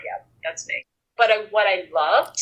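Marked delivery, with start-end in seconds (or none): 0.0-0.8 imitated listener admitting. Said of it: "people listening going".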